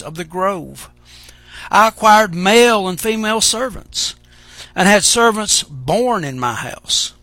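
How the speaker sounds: measured, solemn reading of scripture. Acted. Preacher reading Ecclesiastes aloud to the church, solemn.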